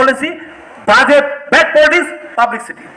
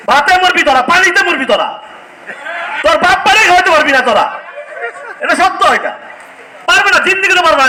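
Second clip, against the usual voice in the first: mock them, voice raised; scornful raised taunt with a laugh; taunting rant; 5 semitones higher than usual. Real, not acted. Taunting rival YouTubers.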